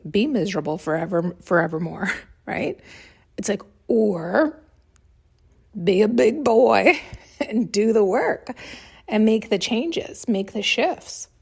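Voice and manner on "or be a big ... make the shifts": slow, laughing tease with a mocking edge; laughing taunt. Real, not acted. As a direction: chuckle while goading them to grow up. Mocking men who avoid inner work.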